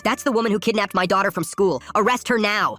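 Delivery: high, forceful accusing mother; screamed accusation. A narrator's reading. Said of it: "Her mom screamed at us".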